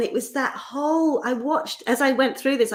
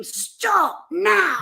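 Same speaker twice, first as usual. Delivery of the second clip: high, louder urgent stop shout; mock scream; 9 semitones higher, 5 dB louder than usual. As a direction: yell stop at the child on the road. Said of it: "So I just scream".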